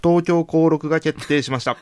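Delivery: cracking into a high squeak. Real, not acted. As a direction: voice flips up high mid-phrase. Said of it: "今声がひっくり返ってた".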